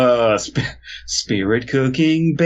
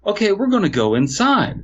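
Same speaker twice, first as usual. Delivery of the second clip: put-on bright, higher kids' TV host; chirpy narrating host for little kids; children's show host; 3 semitones higher than usual. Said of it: "like a children's show where the host".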